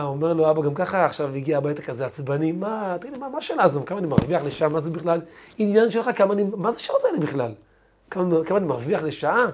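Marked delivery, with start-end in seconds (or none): 2.5-9.5 irritated father brushing off the question; storyteller voicing a fed-up father; annoyed father. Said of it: "אבא כעס על השאלה".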